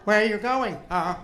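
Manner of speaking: Famous band as cab driver. Pretend. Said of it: "my impression of" a famous band "as cab drivers".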